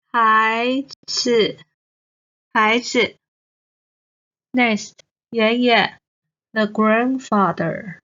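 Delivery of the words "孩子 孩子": 孩子 with rising 孩 and a short light 子; neutral tone. Shown as a demonstration. Teacher drilling learners, rising 孩 then light 子. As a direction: let 孩 rise, then tap 子 quickly. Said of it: "子, the neutral tone".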